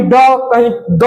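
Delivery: retroflex ड, then dental द; two sounds of D. Shown as a demonstration. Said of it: "pronounce करते हैं".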